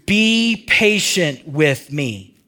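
a very slow, drawn-out plea; begging. Shown as a demonstration. Preacher redoes the servant's plea to his master, slowly begging. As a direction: stretch every word like a man begging for time. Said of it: "he begged".

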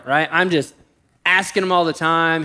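ordinary delivery

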